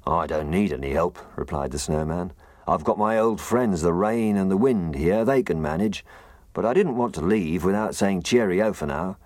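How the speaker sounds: loud, rueful gruff snowman. Acted. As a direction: grumble about the scatty wind. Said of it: "He had a very gruff voice".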